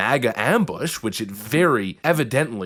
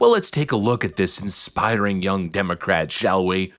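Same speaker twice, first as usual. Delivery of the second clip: dry mock praise, pitched lower; sarcastic; 4 semitones lower than usual. Real, not acted. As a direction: introduce them with feigned admiration. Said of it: "you can sense the sarcasm".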